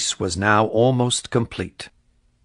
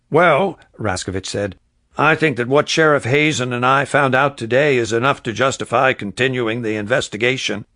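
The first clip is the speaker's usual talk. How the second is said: earnest deputy; 3 semitones higher, 4 dB louder than usual. Acted. Raskovich argues his case.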